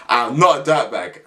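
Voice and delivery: laughing it off; laughing denial. Real, not acted. Joking to viewers, laughing while he denies it. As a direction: chuckle through "I'm not a dirtbag".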